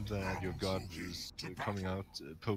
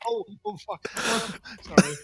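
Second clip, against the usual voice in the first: higher, louder pained outcry through laughter; pained gasp; 13 semitones higher, 13 dB louder than usual. Real, not acted. Hurting his hernia while laughing, pained outcry. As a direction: wince mid-laugh.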